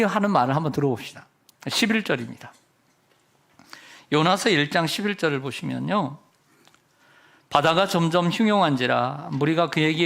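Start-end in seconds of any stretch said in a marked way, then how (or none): none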